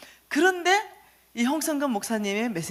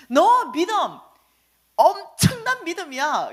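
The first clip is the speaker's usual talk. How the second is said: comforting Lord; 4 semitones higher, 5 dB louder than usual. Retold or imitated. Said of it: "위로하기 시작했어요".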